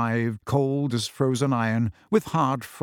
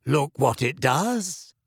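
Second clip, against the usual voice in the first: lightly voiced dreamy girl; slower than usual. Luna voiced by narrator.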